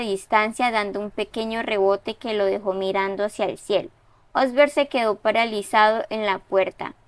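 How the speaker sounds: steady, even read-aloud of a story; story narration. A narrator's reading. Teacher reading a student's story aloud, even narration. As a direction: read the student's text out to the class.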